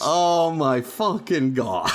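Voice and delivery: slow, word-by-word dismay; retold groan of despair; exasperated. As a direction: drag it out in disbelief.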